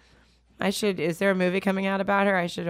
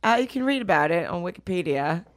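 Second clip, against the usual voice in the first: imitating a singer. Pretend. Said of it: "now you do".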